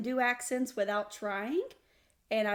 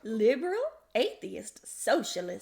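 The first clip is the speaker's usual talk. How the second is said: playful roll-call of labels; folksy theatrical listing; hammed-up show intro. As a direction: announce each label with mock pride. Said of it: "I couldn't keep it straight".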